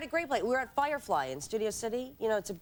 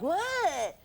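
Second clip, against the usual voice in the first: high, annoyed retold "what"; 8 semitones higher than usual. Girlfriend answering boyfriend trying for her attention, annoyed. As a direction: snap back in mock irritation.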